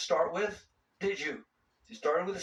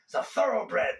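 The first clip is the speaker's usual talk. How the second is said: higher, louder mock retort; mock yelled comeback; 6 semitones higher, 4 dB louder than usual. Cyclist answers a heckler back, mock yelling. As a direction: pretend to call back at a heckler. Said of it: "Did you yell something back?".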